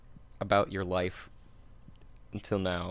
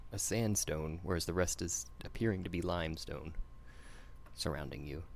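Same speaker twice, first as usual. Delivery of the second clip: game master narration; 4 dB quieter than usual. Acted. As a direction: paint the misty chamber for players. GM describes the chamber.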